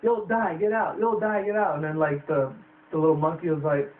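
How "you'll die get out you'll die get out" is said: spooky scarecrow warning. Retold or imitated. Scarecrows warning travelers, eerie raised voice. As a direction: warn them off like a haunted scarecrow. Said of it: "These scarecrows are like".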